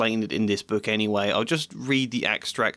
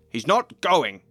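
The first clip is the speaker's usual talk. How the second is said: firm refusal; 5 semitones higher, 4 dB louder, slower than usual. Acted. Vernon refuses, read aloud.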